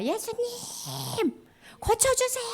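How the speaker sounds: high, held-back demonstration yell; mock shout. Shown as a demonstration. Teacher cueing children to cry out to Jesus, restrained mock shout. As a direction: model a shout without full volume. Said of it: "그때 예수님께 소리 지르는 거야".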